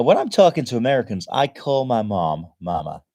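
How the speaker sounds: Brit's put-on American accent. Reading a viewer's message, American accent. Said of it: "can we have Sean back".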